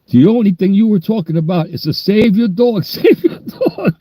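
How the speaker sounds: high-pitched, giggling retold quote; mock fireman voice, laughing. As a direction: squeal it out through laughter.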